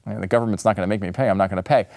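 lightly voiced borrower. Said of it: "would say".

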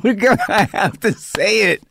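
high-pitched, helpless protest; exasperated plea. Retold or imitated. Actor insisting on his scripted line, exasperated. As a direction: push it up high, comically desperate.

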